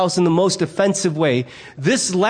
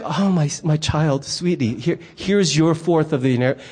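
mock tender; 4 semitones lower than usual. Father gently handing the ungrateful son his inheritance, mock tender. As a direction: coo sarcastically at the greedy child. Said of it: "not what I would emotionally be feeling".

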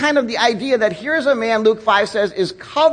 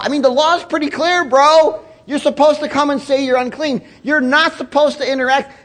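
louder, higher indignant crowd member; indignant onlooker; 4 semitones higher, 4 dB louder than usual. Retold or imitated. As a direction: scold the leper for breaking the law, building. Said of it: "what are you thinking?".

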